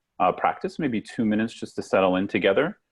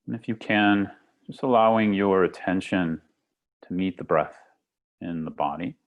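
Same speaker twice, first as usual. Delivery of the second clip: calm meditation guide with long pauses; guided meditation. Acted. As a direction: lead them gently into the breath, unhurried. Leads a guided breathing meditation.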